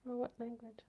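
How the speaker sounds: unvoiced whisper; whispered aside. Real, not acted. Asking chat about the language, whispered aside. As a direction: whisper it off to the side.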